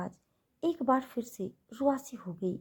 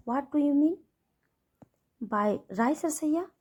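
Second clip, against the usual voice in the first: louder, higher and slow, drawing out Rasaiya with a rise; angry demand; 5 semitones higher, 5 dB louder, slower than usual. A narrator's reading. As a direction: demand an explanation, indignant. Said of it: "गुस्से से बोला". (गुस्से में ऊँची आवाज़ से सवाल)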